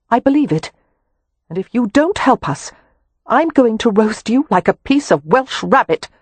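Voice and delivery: high, loud, steady menace; cold threat. A narrator's reading. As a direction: promise to burn him, deadly serious. Wynne threatens Harrow.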